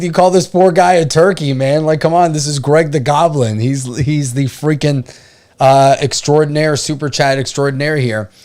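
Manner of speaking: razz him for mangling the name; amused protest. Retold or imitated. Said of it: "I'm like".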